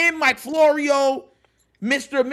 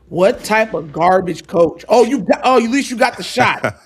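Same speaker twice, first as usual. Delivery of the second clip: indignant; 3 semitones lower, 6 dB louder than usual. Real, not acted. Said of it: "I be throwing slaps at these dudes".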